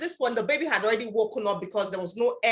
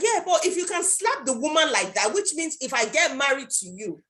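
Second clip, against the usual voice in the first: put-on challenging girlfriend; 2 semitones higher than usual. Girlfriend challenges boyfriend, high voice.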